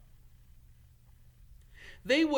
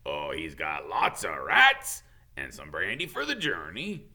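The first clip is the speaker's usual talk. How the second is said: low choked-up voice; muffled Hagrid; 5 semitones lower, 5 dB louder than usual. Acted. Hagrid tells kids about the crate, muffled. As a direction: speak through held-back tears. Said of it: "in a muffled voice".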